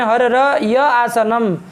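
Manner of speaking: हर र य आसनम with each r sounded separately; हर र य आसनम broken into its sounds, r said twice; doubled r. Shown as a demonstration. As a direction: spell out both r sounds in हर र य आसनम. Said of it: "और करेंगे उस स्थिति में".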